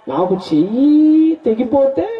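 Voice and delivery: indignant king. Retold or imitated. King retorts to the minister about his lost thumb, slow outrage. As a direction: spit it back at him slowly.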